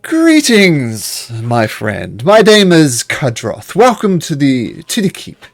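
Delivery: smooth, lightly voiced host; welcoming host. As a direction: Kadroth greeting the party at the keep. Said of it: "And the guy goes".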